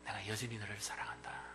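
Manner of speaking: whispered, with 여전히 leaned on gently; tender whisper. Acted. Jesus whispering his lasting love to Peter. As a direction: hush it like a secret promise.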